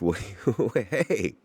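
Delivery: high-pitched mock distant yell; Mark's yelling. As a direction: call out high, without real volume. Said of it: "you just hear Mark yelling".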